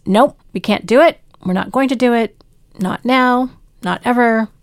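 a boss firmly refusing the idea; firm refusal. Retold or imitated. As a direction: close the door on it, firmly.

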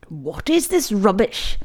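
schoolmaster's scornful question; frowning disapproval. A narrator's reading. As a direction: demand an explanation from a guilty pupil.

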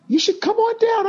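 high game-show call; lightly voiced TV announcer; a hint of a game-show host. Mimics TV announcer invite.

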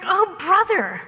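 high-pitched exasperated disbelief; incredulous. Retold or imitated. Moses questioning God about feeding six hundred thousand, incredulous. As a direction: protest in mock disbelief, pitch jumping up. Moses doubts God's promise.

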